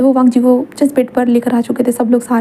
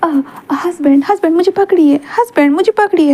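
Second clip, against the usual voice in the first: playful laughing call; 5 semitones higher than usual. Acted. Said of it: "wing हंसते हुए".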